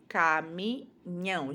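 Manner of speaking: "caminhão" said slowly, falling, each sound clear; slow modelling. Shown as a demonstration. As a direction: stretch "caminhão" so the ending is heard. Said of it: "o ião é feito com". ("caminhão" devagar, marcando o final)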